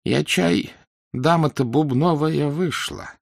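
put-on high, slow, trembling old woman; weak quavering old voice. A narrator's reading. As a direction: quaver it out like a frail old lady with a German accent. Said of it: "произнёс слабый дребезжащий голос".

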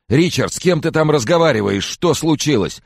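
very high, loud, anxious demand; panicked questioning. A narrator's reading. Caller hears friend talking to someone, panicked. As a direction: fire frantic questions down the line.

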